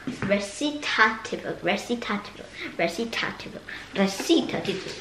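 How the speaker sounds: Italian pronunciation of recitativo; Italian accent. Shown as a demonstration. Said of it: "hope my Italian accent isn't too bad".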